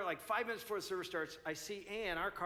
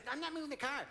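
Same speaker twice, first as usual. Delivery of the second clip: mock defiant refusal; 8 semitones higher, faster than usual. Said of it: "She's like".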